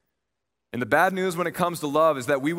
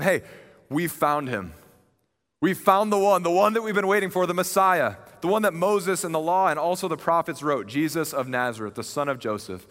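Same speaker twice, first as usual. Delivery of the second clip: excited announcement; 4 semitones higher than usual. Acted. Philip telling Nathanael they've found the one, excited. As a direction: burst out with the news you've waited for.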